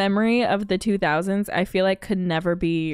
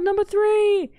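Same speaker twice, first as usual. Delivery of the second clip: high, loud mock courtier; 12 semitones higher, 4 dB louder than usual. Quoting the mirror scene.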